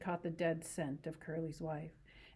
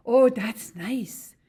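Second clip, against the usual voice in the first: higher, much louder, very slow delighted sigh; pleased Lenny; 5 semitones higher, 14 dB louder, much slower than usual. Acted. Lenny stroking her hair, slow delighted murmur. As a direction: savour the softness slowly.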